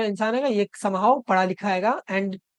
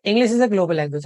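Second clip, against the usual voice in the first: slow dictation; 3 dB louder, much slower than usual. Shown as a demonstration. Reads the key sentence slowly.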